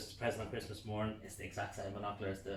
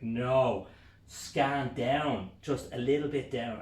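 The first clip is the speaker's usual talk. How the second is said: louder, higher directions; eager instruction; 4 semitones higher, 8 dB louder, much slower than usual. Retold or imitated. Husband guiding wife at binoculars, eager. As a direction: guide her eagerly.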